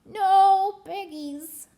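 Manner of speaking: the duck answering the witch, quacking. Acted. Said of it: "quacked the duck".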